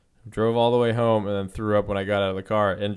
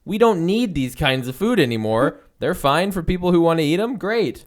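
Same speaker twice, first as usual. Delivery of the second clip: berserk rage; 8 semitones higher, 8 dB louder than usual. Real, not acted. Rant about bones.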